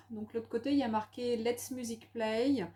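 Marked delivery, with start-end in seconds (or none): 1.4-2.7 English read with French sounds; French-accented English. Real, not acted. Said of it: "avec notre accent anglais pourri".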